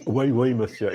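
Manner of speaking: mock French in the host's accent; imitating host's accent. Guest echoes host's French, imitating his accent. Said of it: "why am I imitating your accent?".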